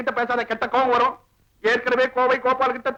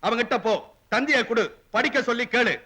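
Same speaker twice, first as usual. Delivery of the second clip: measured, slightly lowered inner voice; scolding conscience; 3 semitones lower than usual. Acted. His conscience telling him to ask the boy, a low measured scolding. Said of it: "மொத்தம் எத்தனை மனசாட்சி".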